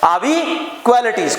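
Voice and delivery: "are we qualities?" asked with a spoken question tune. Shown as a demonstration. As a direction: give "are we qualities?" the melody of a real question. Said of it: "question है". ("are we qualities?" सवाल की tone में)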